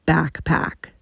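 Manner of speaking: backpack, said slow and deliberate; said slowly. Shown as a demonstration. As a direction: spell out backpack slowly, like to a child. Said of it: "I'm gonna repeat this word to you slowly".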